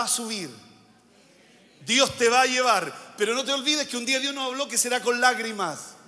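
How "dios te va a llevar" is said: emphatic proclamation. Real, not acted. Preacher proclaims promise to congregation.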